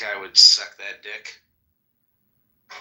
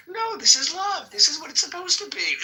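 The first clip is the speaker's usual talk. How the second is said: higher, hammed-up Satan demon; mock devil voice. Friend imitating the comic's devil, hammed-up. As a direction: ham up a demon voice. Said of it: "he does, like, a devil".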